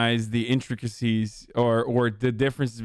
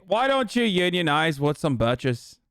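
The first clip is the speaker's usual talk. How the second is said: mock-rousing Irish accent. Streamer heckling unionists in a mock Irish accent. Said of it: "do an Irish accent".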